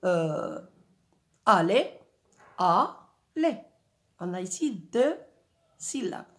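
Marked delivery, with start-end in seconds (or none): 1.4-3.6 al-ler, each syllable set apart; split into syllables. Shown as a demonstration. Teacher splits "aller" into syllables for pupils. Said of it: "Prenons par exemple le mot".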